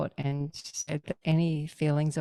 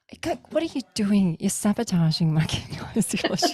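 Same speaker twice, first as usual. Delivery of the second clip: raised, louder exasperation with a laugh in it; mock-exasperated accusation, pitched up; retold frustration; 4 semitones higher, 5 dB louder than usual. Daughter accuses mum during the session, retold frustrated outburst. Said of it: "She's getting really frustrated".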